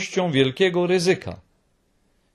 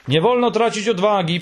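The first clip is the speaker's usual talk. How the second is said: friendly; 6 semitones higher than usual. A narrator's reading. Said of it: "powiedział Paszczak przyjaźnie".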